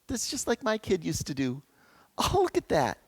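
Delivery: lightly voiced doting grandparent, soft; delighted grandparent. Grandparent watching a grandchild do something, softly delighted. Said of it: "and they say".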